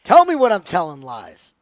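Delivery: loud, boastful pump-up shout; yelling. Real, not acted. Bettor whose pick just won, boastful yelling. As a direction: call it out like a vindicated winner. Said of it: "I'm just yelling in general".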